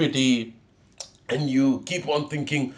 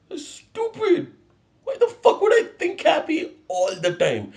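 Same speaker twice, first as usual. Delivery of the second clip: exasperated retort; 9 semitones higher than usual. Retold or imitated. Retorting to happy advice.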